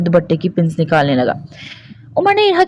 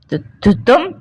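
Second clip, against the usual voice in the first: faltering voice; 8 semitones higher than usual. A narrator's reading. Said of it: "लड़खड़ाते हुए लहजे में कहा".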